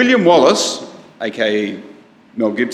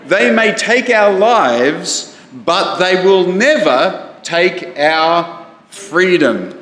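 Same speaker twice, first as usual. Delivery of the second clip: mild mock yell; 4 semitones higher, slower than usual. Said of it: "he yells at them".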